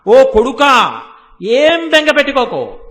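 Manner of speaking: loud, long-held words of comfort; mother's reassuring call. Retold or imitated. Mother goddess to her crying son, loud reassuring call. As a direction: call out to a child, stretching the verse. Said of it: "ఎలా అంటోందో చూడండి".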